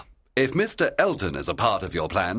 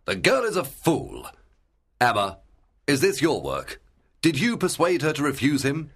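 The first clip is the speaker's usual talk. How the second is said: higher-pitched indignant gentleman; angry; 6 semitones higher than usual. A narrator's reading. Gentleman confronts his friend over a refusal, angry. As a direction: demand an answer, understated anger. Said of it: "He was very angry".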